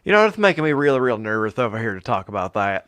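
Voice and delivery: put-on southern voice; southern accent. Co-host playing nervous to the host, southern accent. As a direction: play along in a southern accent. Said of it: "That accent's infectious".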